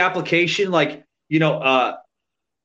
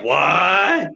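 imitating Pat McAfee; 3 semitones higher than usual. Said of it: "he's like".

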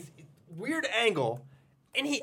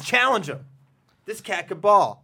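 quoting Charlie Murphy; 3 semitones higher, 4 dB louder than usual. Retold or imitated. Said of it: "He says".

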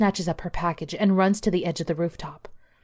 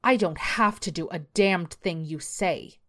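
sneering. Acted. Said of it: "Karen sneers".

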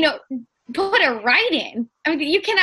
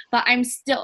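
put-on slips into a Jersey accent on "but I'm still"; a hint of Jersey accent, unintended; accidental Jersey accent. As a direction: say it with a light New Jersey accent. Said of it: "oh, that was a Jersey accent".

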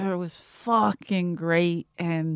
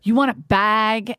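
nasty clerk; 2 semitones higher, 4 dB louder, slower than usual. Retold or imitated. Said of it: "really nasty, older Asian lady".

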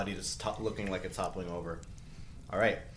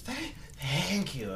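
put-on weak girl voice; 8 semitones higher, much slower than usual. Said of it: "She says".

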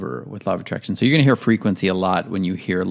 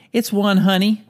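high put-on voice; 12 semitones higher than usual.

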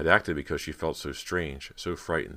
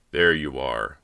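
louder call across a room; 2 semitones lower, 7 dB louder, slower than usual. A narrator's reading. Bo spots Cody entering the crowded room, calling out. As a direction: call it out to someone arriving. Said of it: "Bo called to her".

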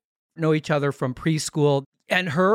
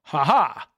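fake new laugh. Shown as a demonstration. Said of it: "I'm gonna be laughing like this today".

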